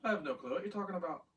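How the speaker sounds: fast, evasive denial; guilty voice. Acted. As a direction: rush the denial like you're hiding something. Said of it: "That's your guilty voice".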